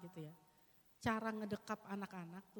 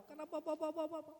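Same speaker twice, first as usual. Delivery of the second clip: tongues prayer; 5 semitones higher than usual. Shown as a demonstration. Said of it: "doa pakai bahasa roh".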